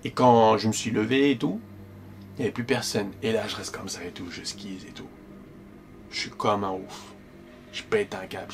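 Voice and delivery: stunned hush. Real, not acted. Alone in his room afterwards, stunned and hushed. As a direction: let the shock leave you breathless and low. Shock after the presence vanishes.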